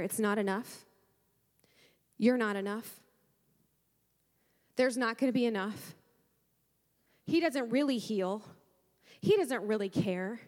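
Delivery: a pastor voices the enemy whispering lies to the church, low and taunting; enemy's whisper. Retold or imitated. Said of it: "He whispers in your ear".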